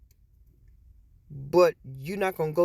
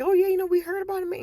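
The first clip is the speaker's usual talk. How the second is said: put-on much higher, fast, loud teen voice; imitating the teenagers; 5 dB louder, faster than usual. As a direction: mimic the kids, high and quick.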